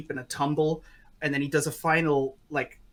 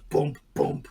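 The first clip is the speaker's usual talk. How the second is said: spoken thumping sound effect; imitated bumping. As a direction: thump it out like an impact.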